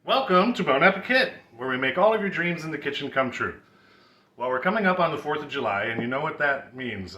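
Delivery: lightly voiced radio DJ intro; a hint of a breezy summer DJ; summertime DJ voice. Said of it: "that's my summertime D J voice".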